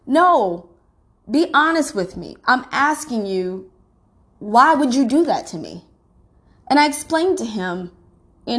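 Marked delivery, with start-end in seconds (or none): 0.1-5.9 pleading. Retold or imitated. Retold pleading confrontation.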